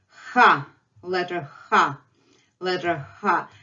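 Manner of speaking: "ha" with a harsh h from the back; hard Russian h. Shown as a demonstration. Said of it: "It's much harder to pronounce".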